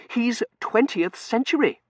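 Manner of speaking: high, slow, officious objection; Seraphim. Acted. Seraphim objecting to Dunworthy's choice, high officious voice. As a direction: pitch it high and loud, objecting.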